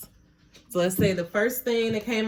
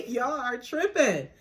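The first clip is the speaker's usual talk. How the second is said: laughing through it, slower; 7 semitones higher, 4 dB louder than usual. Real, not acted. Reader laughing at Spirit's scolding. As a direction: giggle the words out.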